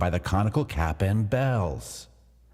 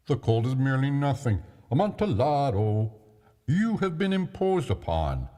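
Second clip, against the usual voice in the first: put-on eager drunk Fortunato; 8 semitones higher than usual. Drunk Fortunato insists on going.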